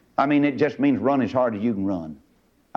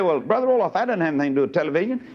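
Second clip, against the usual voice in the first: mock objector; 4 semitones higher, faster than usual. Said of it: "You say".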